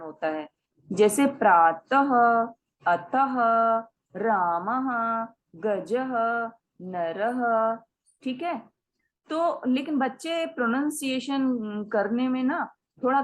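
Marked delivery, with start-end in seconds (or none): 0.9-7.8 slow, trail each word into a faint ह; light h sound. Shown as a demonstration. Teacher models visarg words slowly. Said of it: "हल्के ह का भी उच्चारण".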